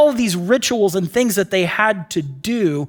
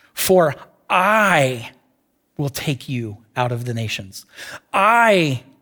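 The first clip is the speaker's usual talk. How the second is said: the word I hit hard, carrying the weight; 7 semitones lower than usual. Reading a Bible text aloud, with stress on I. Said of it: "Listen to how this text sounds if we emphasize the word "I."".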